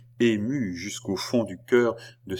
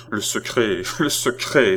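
crying out; 3 semitones higher, 5 dB louder than usual. A narrator's reading. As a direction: repeat it as a rising outcry. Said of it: "s'écria la reine". (exclamation qui monte)

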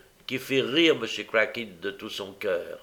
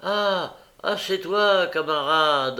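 recognition; 7 semitones higher, 3 dB louder, slower than usual. A narrator's reading. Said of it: "reprit la même voix".

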